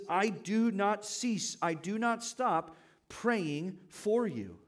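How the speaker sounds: I do not cease, each word slowed and leaned on; slow, weighty quoting of Paul. Shown as a demonstration. Preacher slowly stresses Paul's words to the congregation. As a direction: stretch "do" and "not" out slowly to drive home the point. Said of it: "He says".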